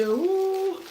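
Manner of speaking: high, delighted gasp of surprise, then amazed; amazed ooh. Pretend. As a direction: play the impressed first taster. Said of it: "you will say".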